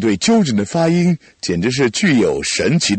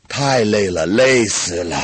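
worn out and tired; exhausted after the drill; 2 semitones lower, slower than usual. Real, not acted.

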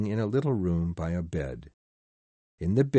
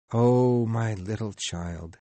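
a touch of a father's sob, slowing; mild crying; 2 semitones higher, slower than usual. Acted. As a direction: let the grief break through understated. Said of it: "he cried suddenly".

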